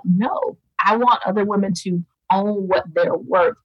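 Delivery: adamant, passionate insistence; emphatic. Retold or imitated. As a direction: put your foot down with conviction. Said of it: "I almost became emphatic".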